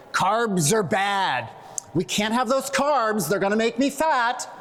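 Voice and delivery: mock the diet crowd lightly; mocking dieter voice. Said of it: "I don't know why I have to talk like this voice".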